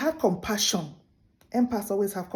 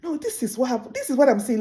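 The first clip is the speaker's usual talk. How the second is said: worked up; 5 semitones higher, 3 dB louder than usual. Retold or imitated. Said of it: "I used to get worked up".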